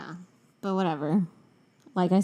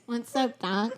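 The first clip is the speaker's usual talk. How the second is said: Bugs Bunny; 2 semitones higher, slower than usual. Retold or imitated. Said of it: "it sounded like Bugs Bunny".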